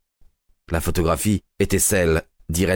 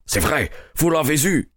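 excited cry; 7 semitones higher than usual. A narrator's reading. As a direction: cry out eagerly without real shouting. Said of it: "cria-t-il en empoignant Holmes". (exclamation vive, voix plus haute)

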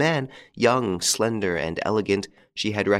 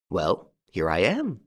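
with a smile; slower than usual. Acted. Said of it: "he said with a smile".

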